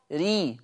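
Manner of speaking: ري with a thin, light r. Shown as a demonstration. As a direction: say ري lightly, r softened. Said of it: "مرققة".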